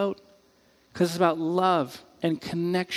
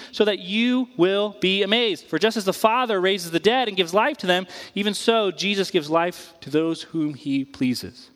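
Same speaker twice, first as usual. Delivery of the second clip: scripture reading; 3 semitones higher than usual. Acted.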